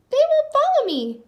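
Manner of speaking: high, loud squawking duck complaint; frustrated duck squawk; Donald Duck voice. A narrator's reading. Pied Piper Donald grumbles the ducklings ignore him, high duck squawk.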